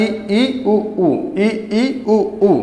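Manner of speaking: isolated ई and उ, evenly spaced; demonstrated vowels. Shown as a demonstration. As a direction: repeat ई and उ as separate vowel sounds. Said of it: "बंद जैसा ही लग रहा है".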